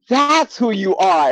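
high, drawn-out retold realisation; amazed recognition. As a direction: stretch it out high as it dawns on you. Nurse's moment of recognition, retold.

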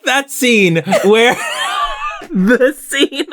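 words breaking into high laughter; laughing. Real, not acted. Recalling the scene to her co-host, laughing hard. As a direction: laugh through it, barely able to speak.

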